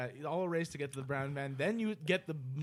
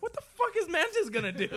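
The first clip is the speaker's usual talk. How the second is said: high, loud laughing quote; laughing mock disbelief; 6 dB louder than usual. Fan mocking a weak hero, laughing high and loud. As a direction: scoff through a laugh at a useless hero.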